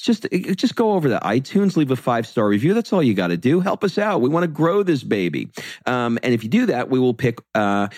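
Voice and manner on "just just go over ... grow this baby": higher, fast pleading nag; guilt-trip them playfully; would-it-kill-you mock whine. Begging for reviews.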